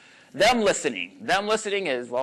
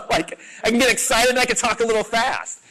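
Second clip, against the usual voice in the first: laughing at self; 7 semitones higher, 4 dB louder than usual. Real, not acted.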